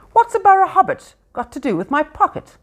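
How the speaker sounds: loud, high suspicious troll. A narrator's reading. William the troll questions Bilbo, suspicious troll voice. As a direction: growl it out suspiciously. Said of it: "said William".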